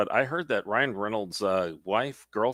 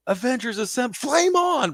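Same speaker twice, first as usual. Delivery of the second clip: imitated heroic battle cry. Fan acting out the hero's catchphrase switch, building mock cry. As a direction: build to a hammed-up superhero yell.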